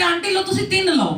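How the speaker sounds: high, loud, hearty Punjabi uncle insisting; jovial Punjabi uncle. Retold or imitated. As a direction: press three samosas on her, beaming. Generous sevadar uncle offers more. (सेवादार uncle ज़ोर से, खुशी में समोसे देते हुए)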